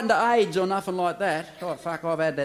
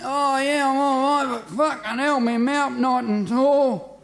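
patient talking through a wired jaw, higher; jaw wired shut; 7 semitones higher, 4 dB louder, slower than usual. Acted. Patient after jaw surgery answers the doctor, mouth wired shut. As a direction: mumble through clenched jaw.

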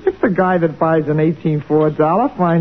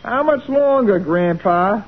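put-on higher-pitched southern accent; 4 semitones higher than usual. Woman hurrying the old molder, put-on southern accent. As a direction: turn on a southern accent to coax him. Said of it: "when you put on that southern accent".

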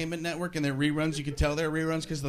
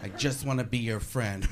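dropped low and soft; mock gentle letdown; 7 semitones lower, 7 dB quieter than usual. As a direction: let them down quietly. Girl's letdown after the compliments.

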